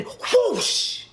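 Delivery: long drawn-out whoosh; slow, airy snatching sound effect; imitated whoosh. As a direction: stretch the whoosh like a trap springing. Imitates rope trap snatching her.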